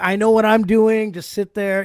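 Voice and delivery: slow, dismissive know-it-all; condescending engineer. Retold or imitated. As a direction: brush the artist off slowly. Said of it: "they always say".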